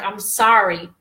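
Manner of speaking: low, tender affirmations to oneself; retold heartfelt comforting, short separate phrases; emotional self-reassurance. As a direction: gently reassure yourself, pitched low. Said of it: "it was very emotional".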